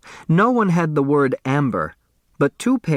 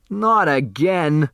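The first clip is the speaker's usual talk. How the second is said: slow, weary groan of complaint; 4 semitones higher, slower than usual. Acted. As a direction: drag it out, fed up. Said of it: "Otis Amber groaned".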